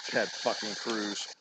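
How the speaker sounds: disgusted mutter. Real, not acted. Repeating the senator's name to viewers, soft disgusted mutter. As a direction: grumble the name under your breath.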